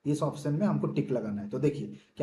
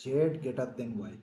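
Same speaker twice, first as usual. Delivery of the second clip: slow, careful reading; 3 semitones lower, 3 dB quieter, slower than usual. Shown as a demonstration. Teacher showing students the right order, slow and careful. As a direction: read "Z greater than Y" a bit slowly and deliberately. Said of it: "मैं पढ़ूंगा कैसे".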